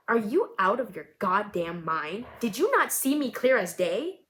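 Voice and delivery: put-on an older woman chewing someone out after a crash; angry older lady. Older woman yelling at the driver who hit her, angry.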